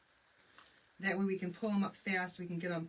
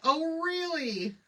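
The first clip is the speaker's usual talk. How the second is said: surprised; 9 semitones higher, 6 dB louder, much slower than usual. Real, not acted. Surprised at viewer's location.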